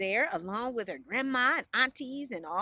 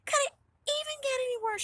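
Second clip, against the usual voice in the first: high, rushed, despairing lament; exasperated despair; 11 semitones higher, faster than usual. A narrator's reading. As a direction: wail it lightly at a rotten day. Heroine despairs over her bad day.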